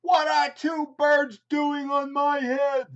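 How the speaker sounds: high, loud, slow bewildered elephant voice; a baffled, put-upon elephant; Gerald the elephant. Acted. Elephant asking his friend Piggy, high and baffled.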